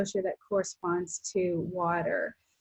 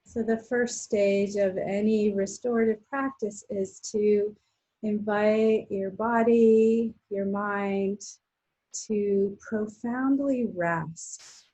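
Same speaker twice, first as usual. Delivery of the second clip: guided relaxation. Real, not acted. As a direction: ease them into rest with long pauses between phrases. Guides restorative rest practice.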